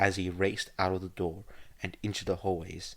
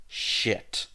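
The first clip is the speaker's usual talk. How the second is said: cursing; 3 semitones higher, 3 dB louder than usual. Acted. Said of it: "Egon cursed".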